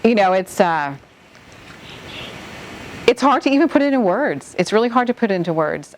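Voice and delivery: fighting back real tears while trying to speak; close to tears. Real, not acted. Hurricane survivor telling the interviewer her feelings, near tears. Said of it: "I'm gonna start crying".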